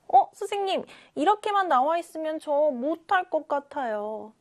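pupil voice. Acted.

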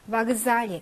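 바그잘리 opening with an a sound; unstressed O as A. Shown as a demonstration. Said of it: "강세가 없어서 얘만 아 발음이 납니다".

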